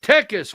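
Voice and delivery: "Texas" said as TEH-kas, no s after the k; imitated Mexican pronunciation. Host mimicking how Mexicans he met said "Texas", as TEK-us. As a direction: drop the middle s in "Texas": TEK-us. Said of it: "When I first started meeting Mexicans".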